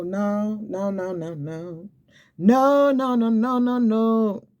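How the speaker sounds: high, rising string of no's, peaking loud; emphatic no. Acted. Preacher refusing a stranger's false word, high and emphatic.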